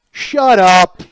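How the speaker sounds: a loud, curt yell from the back; mock yell from the back of the theater; yelled shut up. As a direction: bark it to silence him. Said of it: "Yells at him to shut up".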